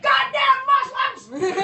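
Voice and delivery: high, loud, slow explosive outburst; sudden rage. Retold or imitated. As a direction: blow up after fifty years of stewing. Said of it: "he's like".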